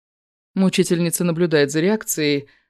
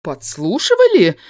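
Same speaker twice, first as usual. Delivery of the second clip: mock frown; 2 semitones higher, 3 dB louder than usual. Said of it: "Наигранно хмурюсь".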